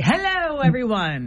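her own mild version of a queen; queen accent. Shown as a demonstration. Host demonstrates her version of a queen accent, mild mock-regal. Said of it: "my version of a Queen accent would be".

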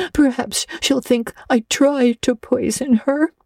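put-on high, tearful girl's lament with stammered catches; sobbing. A narrator's reading. Anne pours out her disgrace to Marilla, sobbing. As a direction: wail woefully, breaking up on words. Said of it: "sobbed Anne, without looking up".

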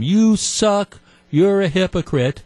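high, pushed leather-lunged heckle; mock yelling. Leather-lunged guy yelling down the aisle at Christie, mock yell. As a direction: imitate a loudmouth fan hollering. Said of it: "leather-lunged guy who's yelling at him".

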